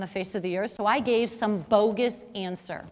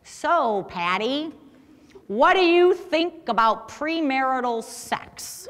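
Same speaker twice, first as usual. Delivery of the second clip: slow, stilted question with a laugh breaking in; awkward Jerry; slower than usual. Retold or imitated. Storyteller mimics awkward Jerry's blunt bar question, slow and stilted. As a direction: lightly mimic a socially awkward guy asking at the bar. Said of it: "and he talked like this".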